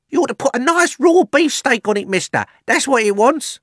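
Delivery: high, loud cheeky lad; cheeky butcher's boy. Acted. Butcher's boy advising the fat man, high and cheeky. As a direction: pipe up loudly with cheeky advice.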